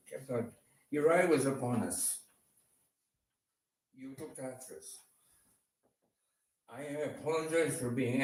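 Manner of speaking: earnest spoken prayer to God; heartfelt prayer. Acted. Man praying to God in thanks and repentance, earnest. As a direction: pray it aloud, repenting and thankful. Prays aloud.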